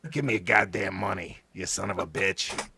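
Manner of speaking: put-on understated New York street thug accent; New York mugger. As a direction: growl a mugging line in a New York accent. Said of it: "straight out of New York".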